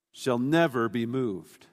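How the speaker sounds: slow, weighty stress on "never"; emphatic. Real, not acted. Preacher reading the psalm's promise, emphatic. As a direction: draw out "never be moved" firmly. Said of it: "the verse is emphatic".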